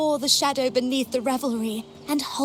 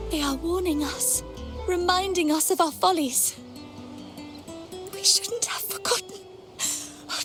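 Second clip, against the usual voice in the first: distressed prayer. Acted. Devotee lamenting divine anger in prayer.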